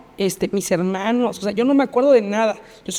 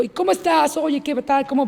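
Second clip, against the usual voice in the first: higher-pitched, casual small-talk greeting; acting normal; 5 semitones higher than usual. Survivor pretending all is normal to her friend, breezily casual. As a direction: imitate a forced-casual hello. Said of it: "Y yo, normal, hasta sonreí".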